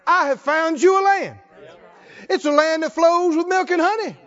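voice of God. Retold or imitated. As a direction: proclaim it as God promising the land. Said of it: "God told them".

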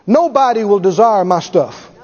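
NOBODY hit first and firm; declared out loud. Shown as a demonstration. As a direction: proclaim NOBODY with weight. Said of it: "You need to say it out loud".

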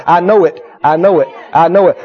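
low, firm repeated affirmation; short prayerful assertions, each falling; settled conviction. Acted. Acted prayer settles into certainty.

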